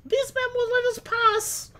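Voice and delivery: put-on slurred, high, slow Irish drunk; drunk Irishman. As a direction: play a tipsy Irish lad. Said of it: "You sound like a drunk Irish".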